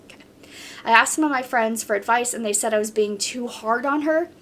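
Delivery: even, flowing reading of a post; story read-aloud. Acted. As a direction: read the account straight through, steadily. Reads a submitted story aloud.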